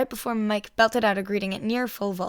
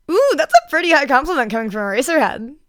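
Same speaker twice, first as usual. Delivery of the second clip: laughing; 6 semitones higher, 10 dB louder than usual. A narrator's reading. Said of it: "laughed Hizashi".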